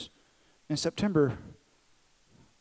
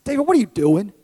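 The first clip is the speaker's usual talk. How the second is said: loud, sharp raised rebuke; snapping; 5 semitones higher, 12 dB louder than usual. Retold or imitated. Father retelling how he snapped at his son, loud. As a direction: bark it at the kid. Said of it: "I just snapped at him".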